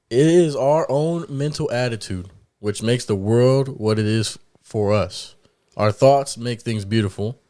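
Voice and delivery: slow, deliberate quote reading; measured read-aloud, phrase by phrase. Real, not acted. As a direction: read it out slowly so everyone can follow. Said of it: "read it a little slow".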